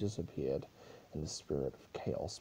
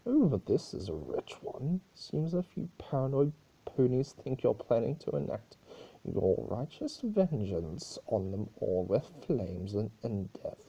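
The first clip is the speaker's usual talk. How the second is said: higher needling chaos-spirit voice; Discord, higher voiced; 3 semitones higher, 3 dB louder than usual. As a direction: twist the knife with mock sympathy. Discord mocks the rumours.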